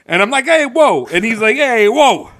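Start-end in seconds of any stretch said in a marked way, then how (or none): 0.4-1.1 higher, stretched Italian-American "hey, whoa"; mock Italian-American greeting. Trading greetings with the guys, mock Italian-American accent. 1.6-2.3 higher, stretched Italian-American "hey, whoa"; mock Italian-American greeting. Trading greetings with the guys, mock Italian-American accent.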